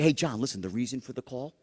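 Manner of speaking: dropped low and hushed, like sharing a secret; low hushed confiding voice; secret whisper tone. Shown as a demonstration. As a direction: lean in and say it as a secret. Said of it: "You whisper".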